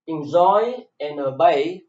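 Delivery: "Enjoy" and "obey" each stressed on the last syllable; second-syllable stress. Shown as a demonstration. Teacher showing where stress falls, second syllable of "Enjoy" and "obey" stressed. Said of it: "The stress is on the second syllable".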